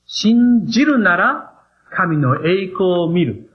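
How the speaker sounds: 信じるなら神の栄光を見る drawn out very slowly, word by word; very slow emphasis. Shown as a demonstration. Preacher repeats the phrase to drive it home, very slowly. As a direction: spell out 信じるなら神の栄光を見る at half pace. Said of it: "これが神様の順序だということを覚えてください".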